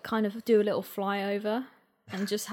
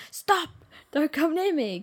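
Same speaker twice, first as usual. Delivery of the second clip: high, raised mock shout; mock shouted warning; 8 semitones higher, 4 dB louder than usual. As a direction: pretend to shout a stranger away. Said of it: "really just shout at someone like".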